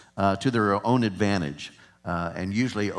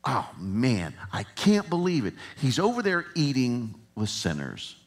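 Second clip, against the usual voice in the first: disgusted Pharisee. Retold or imitated. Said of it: "you can almost hear the disgust in their voice".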